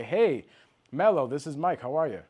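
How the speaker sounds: friendly phone opener, slightly lifted; welcoming. Shown as a demonstration. Salesman opening a call with Mello, mildly welcoming. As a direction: greet the seller by name like a friend. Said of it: "I sound welcoming".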